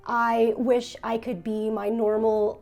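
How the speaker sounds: usual speaking voice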